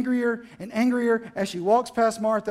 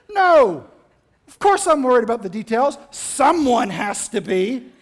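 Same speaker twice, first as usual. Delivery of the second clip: indignant retort; 5 dB louder than usual. Acted. Acted Martha's indignant answer.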